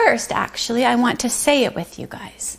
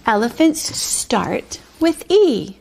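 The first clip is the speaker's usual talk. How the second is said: slow reading; slower than usual. Shown as a demonstration. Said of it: "reading the sentence again".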